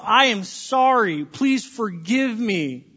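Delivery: slow, sincere "I am sorry"; slow, tender apology to a spouse. Shown as a demonstration. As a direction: speak it slowly as a heartfelt apology. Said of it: "Words of".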